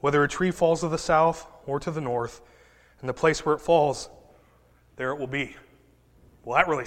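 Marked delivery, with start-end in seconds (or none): 0.0-5.5 scripture reading. Acted. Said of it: "It says".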